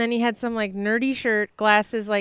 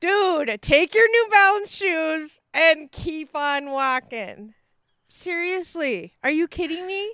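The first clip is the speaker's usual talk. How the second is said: dismissive; 3 semitones higher, slower than usual. Pretend. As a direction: shoo him away word by word. Telling off the imagined neighbour.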